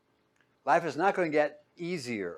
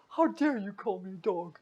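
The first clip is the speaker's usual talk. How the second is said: higher-pitched offended retort; mock indignation; 8 semitones higher than usual. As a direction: act affronted, pitched up. Imagined offended reply to Jesus.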